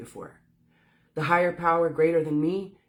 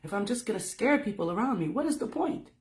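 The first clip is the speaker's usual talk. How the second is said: raised, desperate questioning, climbing higher at the end; pleading yell at God; 5 semitones higher than usual. Retold or imitated. She yells at God over her gifts, pleading. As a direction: demand answers from above, rising to a crack. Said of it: "I yelled at God".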